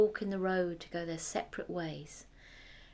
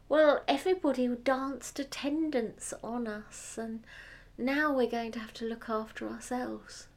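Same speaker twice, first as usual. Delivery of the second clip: cartoon princess; 3 semitones higher, 5 dB louder than usual. Middle daughter voiced in story.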